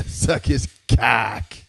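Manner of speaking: slow, stifled words after a laugh; laughing through it. Real, not acted. Reader losing it over the smut line, slowed by stifled laughter. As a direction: try to keep reading while cracking up. Reader cracks mid-sentence.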